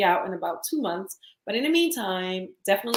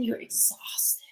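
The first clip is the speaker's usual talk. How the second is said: retold exhaustion; 7 dB quieter, slower than usual. Voicing a worn-out single mom.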